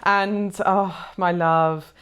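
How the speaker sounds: tender endearment. Real, not acted. Comforting the viewer tenderly.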